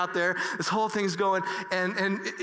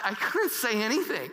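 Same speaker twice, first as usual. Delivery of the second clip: tearful; 3 semitones higher than usual. Real, not acted. Emotional memory, crying heard.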